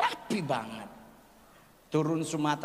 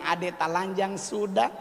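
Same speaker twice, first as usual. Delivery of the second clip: put-on Papuan accent. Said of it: "Si Pace bilang".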